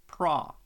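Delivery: "Pro-phe-cy" split into three syllables, loud PRO. Shown as a demonstration. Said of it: "Definitely stress on the first syllable".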